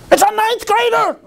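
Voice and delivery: high, disbelieving cry; incredulous outburst. Retold or imitated. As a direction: throw your hands up in disbelief. Exasperated candidate retold.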